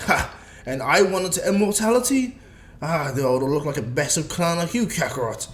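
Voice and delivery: acted jeering taunt; mocking gloat. Vegeta walks in and taunts Goku, mocking. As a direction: jeer at a rival's bad luck.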